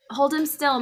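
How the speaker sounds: high, loud shout. Acted. Father wrestling Jim, loud shout. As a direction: bark the order. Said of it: "my father shouted".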